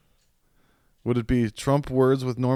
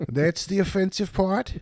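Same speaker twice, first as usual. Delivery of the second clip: high, slow incredulous comic impression; George Carlin; 9 semitones higher, slower than usual. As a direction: draw out the disbelieving punchline question. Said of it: "that was close enough to Carlin".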